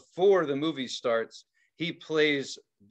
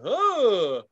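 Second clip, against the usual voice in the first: loud, higher "oh" of jerking awake; imitated waking start; 7 semitones higher, 5 dB louder than usual. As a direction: mimic snapping out of a doze. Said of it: "You just keep dozing off".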